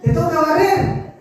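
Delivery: slow, laughing through the mother's order; laughing mother's line. Retold or imitated. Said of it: "mother quoted with a laugh".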